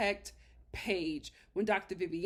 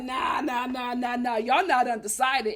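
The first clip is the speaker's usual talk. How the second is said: imitating objecting pastor; 9 dB louder than usual. Acting Pastor Kyle refusing their indecision, loud mock objection. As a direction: roll out the mock objection, voice raised. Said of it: "Pastor Kyle was like".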